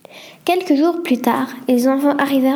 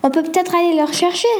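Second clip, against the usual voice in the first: quick, eager and raised; enthusiastic; 5 semitones higher, faster than usual. Acted. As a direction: blurt out the idea with excitement. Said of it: "s'enthousiasma Sophie".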